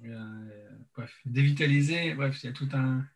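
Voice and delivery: numb mouth after anesthesia; numb from the dentist. Real, not acted. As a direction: speak through a numb mouth. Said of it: "donc je parle un peu lentement".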